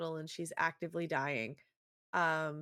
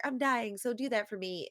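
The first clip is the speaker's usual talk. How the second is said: higher, mock-earnest plea; dying girl pleading; 5 semitones higher than usual. Dying girl to the vampire, pleading. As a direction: press a last request. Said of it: "she's like".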